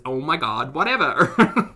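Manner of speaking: put-on lightly done Valley Girl, rising on the last word; Valley Girl accent. Shown as a demonstration. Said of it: "only phrase I've got down for Valley Girl".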